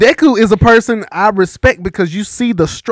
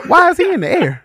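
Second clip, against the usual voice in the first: baffled outburst; shocked; 11 semitones higher than usual. Retold or imitated. Shocked watching, shout heard.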